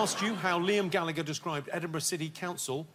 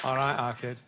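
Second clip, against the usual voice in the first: put-on a light Manchester accent, casual greeting; a quick Mancunian "All right, our kid"; lightly done Manchester accent on request. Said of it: "do your Manchester accent".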